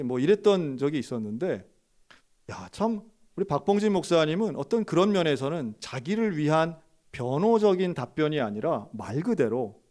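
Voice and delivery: normal talking voice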